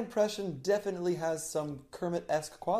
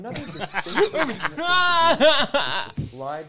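Kermit voice; 8 semitones higher, 5 dB louder, much slower than usual. Pretend. Kermit voice slipping in.

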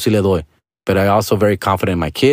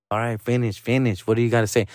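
resigned; 6 dB quieter than usual. Retold or imitated. Lets her go on ranting.

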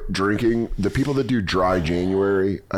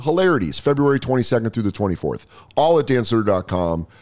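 upbeat ad read of tour dates; comic reading his own tour promo. Acted. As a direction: sell the shows like a radio spot.

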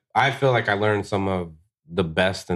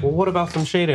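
high mock customer; 10 semitones higher, faster than usual. Customer asking the price.

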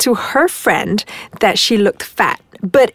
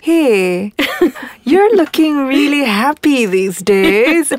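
slow, sly sneer with a smirk in it; snide fake compliment; 4 semitones higher, slower than usual. Shown as a demonstration. Mocking a man hinting she's fat, slow and snide. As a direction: drag it out like a backhanded compliment. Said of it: "it's the intonation".

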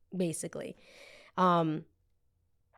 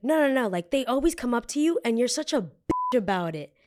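raised, pushy retelling of a confrontation; aggressive; 4 semitones higher than usual. Retold or imitated. Drunk woman challenging the storyteller, aggressive. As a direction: imitate an aggressive challenger, pitched up. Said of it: "starts getting aggressive".

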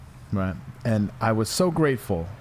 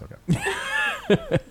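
high squeal. Pretend. Mock offended high squeal.

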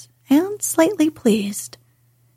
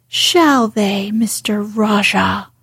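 put-on a girl defying a spoilt boy, fiercely; slower than usual. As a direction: throw it back at him fiercely. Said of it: "said Mary fiercely".

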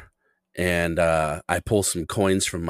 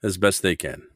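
put-on measured Russian-accented English. Customer talking to shoeshine boy about mothers, Russian accent. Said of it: "my accent is a very proud Russian one".

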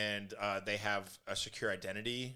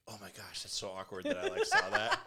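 mock awkward. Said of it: "just be like".

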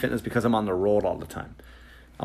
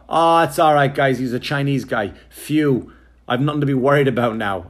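mock relief; 3 semitones higher, 5 dB louder than usual. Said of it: "I'm gonna walk in and go".

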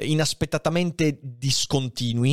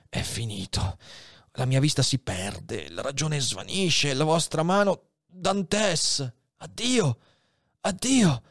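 dying abbé's last words. Acted. Dying Faria says his last words to Edmond, fading. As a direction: let the life drain from each line.

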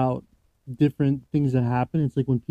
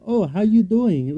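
slow, higher mock Chinese accent; imitated Chinese accent; 6 semitones higher, slower than usual. Co-host imitates the London woman after her coma, Chinese accent. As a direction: put on a rough Chinese-accented English. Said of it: "she spoke English in a Chinese accent".

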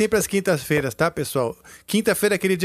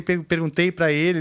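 normal talking voice

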